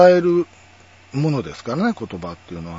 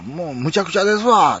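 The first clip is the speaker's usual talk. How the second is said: Kansai dialect; 5 semitones higher, 3 dB louder than usual. Shown as a demonstration. Giving the Kansai version before converting it, emphatic Kansai accent. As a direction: lean hard into Kansai intonation. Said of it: "これ関西弁ですけど".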